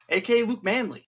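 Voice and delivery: hype intro. Real, not acted. Host hypes guest's real name.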